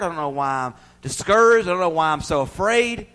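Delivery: loud pleading prayer; heartfelt prayer voiced. Preacher voicing a believer praying, loud pleading. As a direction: cry out your troubles to God.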